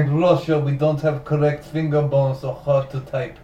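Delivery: put-on light Russian accent, dropped articles; mock Russian accent. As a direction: joke as a Russian local. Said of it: "in a Russian accent".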